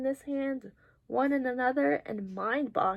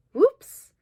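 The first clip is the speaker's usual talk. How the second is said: surprised; 9 semitones higher, 13 dB louder than usual. Acted. Superhero slips, exclaimed.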